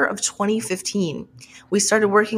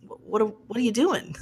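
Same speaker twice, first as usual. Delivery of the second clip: softer, halting, stammered question; gentle bafflement; 5 dB quieter, faster than usual. Retold or imitated. Editor questioning the author's new chapters, in soft, halting bafflement. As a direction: tiptoe softly into the awkward question. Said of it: "like, very nicely".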